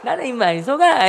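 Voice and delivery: high, loud, amused retort; mock triumphant refusal. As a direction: imitate a sister crowing at a failed trick. Sister gleefully refuses to be fooled.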